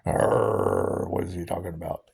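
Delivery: lightly voiced pirate. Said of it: "They look like a pirate".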